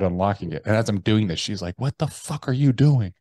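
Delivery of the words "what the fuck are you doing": higher-pitched retold outburst; alarmed wife. Wife to husband unlocking his pistol case, alarmed. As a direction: imitate a wife's startled challenge.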